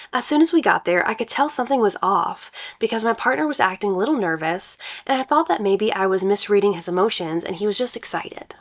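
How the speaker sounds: reading a post aloud; story narration. Acted. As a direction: brighter storytelling read.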